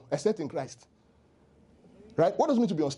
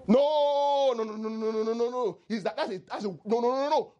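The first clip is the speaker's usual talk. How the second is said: outraged protest; 6 semitones higher than usual. Retold or imitated. David's outraged reaction.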